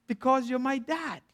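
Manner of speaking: soft, offhand aloof reply. Retold or imitated. Son answers his frustrated father, aloof. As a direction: say it softly, detached. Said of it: "Zach, being very aloof".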